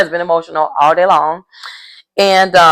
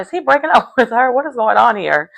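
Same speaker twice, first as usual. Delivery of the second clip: higher, half-laughing disbelief; confused surprise; 5 semitones higher than usual. Retold or imitated. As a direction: ask it baffled, with a laugh breaking in. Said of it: "at first I was like".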